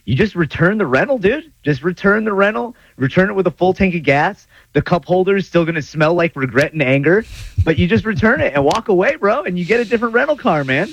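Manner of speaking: breezy high surfer bro; high surfer dude voice. Retold or imitated. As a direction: chill surfer dude advice. Surfer-style advice, pitch very high.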